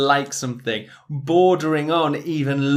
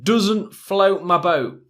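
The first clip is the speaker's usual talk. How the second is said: slow model phrase; 4 semitones higher, 3 dB louder, slower than usual. Shown as a demonstration. Teacher models idiom slowly.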